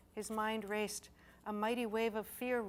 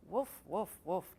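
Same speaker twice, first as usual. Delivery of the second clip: irritably; 5 dB louder, slower than usual. A narrator's reading. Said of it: "Jed said irritably".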